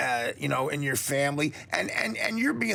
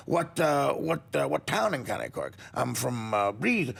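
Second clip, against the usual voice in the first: light mock-Irish question and answer; hesitant hokey Irish accent; understated joke Irishmen; lame Irish brogue; slower than usual. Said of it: "do a lame brogue too here".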